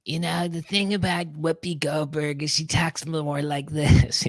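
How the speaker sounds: slow, lilting celebrity voice; Whoopi Goldberg impression. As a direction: drawl it out like Whoopi. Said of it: "She actually sounds like this".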